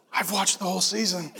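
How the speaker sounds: low, soft, chuckling; amused God. Retold or imitated. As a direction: say it with easy amusement.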